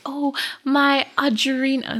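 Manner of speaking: slow, lightly attempted British accent; badly faked British English; mock British accent. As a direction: put on a slow, half-hearted English accent. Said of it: "This is my accent".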